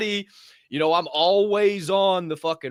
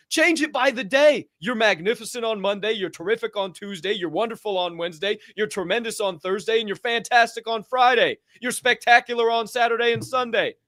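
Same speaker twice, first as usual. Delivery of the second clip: higher, upbeat rattling off words; enthusiastic; 6 semitones higher than usual. Shown as a demonstration. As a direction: sell each word with energy. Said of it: "enthusiastic demo of greetings".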